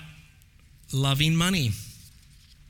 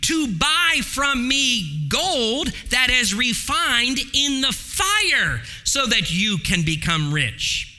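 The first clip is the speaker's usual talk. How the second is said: voicing Jesus; 5 semitones higher, slower than usual. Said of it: "And he says".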